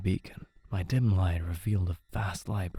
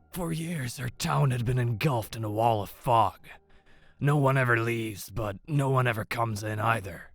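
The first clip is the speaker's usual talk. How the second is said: put-on higher, worn old man speaking; 4 semitones higher than usual. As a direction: tell it like a weary elder.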